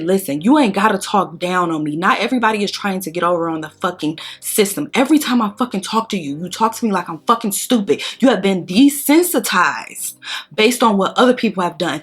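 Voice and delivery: heated, insistent telling-off; retold cussing out. Cussing out the daycare assistance lady, indignant. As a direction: re-enact giving someone an earful, rising in pitch in places. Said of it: "I remember cussing that lady out".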